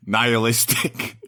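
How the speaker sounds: hammed-up French accent, slowing at the end. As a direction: play a brooding Frenchman, drawing out the last words. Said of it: "figure out why you went French".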